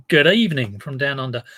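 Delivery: Australian-tinged greeting, meant as New Zealand; Australian accent. Acted. Greeting Kiwi Girl from down under, attempted Australian accent. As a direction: try a light Australian accent. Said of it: "that was rather Australian rather than New Zealand".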